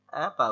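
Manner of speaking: "above" with the weight on the b; teaching model of "above", stressed second syllable; pressure on B. Shown as a demonstration. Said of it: "বির উপর একটা pressure যাচ্ছে".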